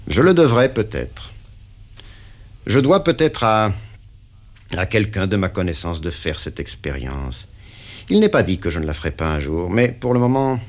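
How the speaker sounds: the boss pinning down the deal; interrogating patron; stern boss. Acted. Patron speaks.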